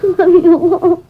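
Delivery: slow, tearful plea through sobs; a boy crying who wants to be left alone; weeping kid pushing the grown-up away. Acted. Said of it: "Just crying to irrigate the freckles".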